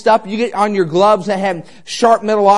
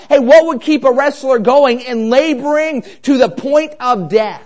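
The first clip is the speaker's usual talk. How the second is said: driving sermon delivery with punched words; impassioned preaching; 2 semitones higher, 4 dB louder than usual. Real, not acted. Preacher urging on a suffering wrestler, impassioned preaching. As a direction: preach it with urgency, hitting key words.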